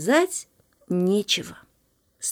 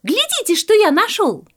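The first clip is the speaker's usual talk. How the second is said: high, loud show-and-tell exclamation; excited call; 9 semitones higher, 5 dB louder than usual. A narrator's reading. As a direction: call them to see your find. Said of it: "позвал петушок". (радостно зовёт, высоко и громко)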